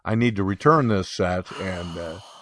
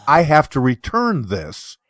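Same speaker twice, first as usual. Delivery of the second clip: whispered; 3 semitones higher, 4 dB louder than usual. Pretend. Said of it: "I should have just said".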